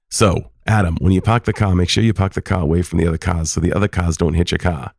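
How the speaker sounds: put-on dropped r's in a Maine accent; old-time Maine accent, r's dropped; grandpa's Maine accent. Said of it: "joy in hearing that accent".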